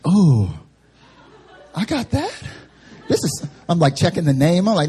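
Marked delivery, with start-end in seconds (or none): 0.0-3.5 high, incredulous squeak on the question; mock disbelief. Student staring at his own grade, mock disbelief. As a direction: pitch shoots up in stunned disbelief, half laughing.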